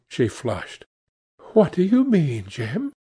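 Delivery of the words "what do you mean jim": puzzled question. Acted. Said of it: "she asked".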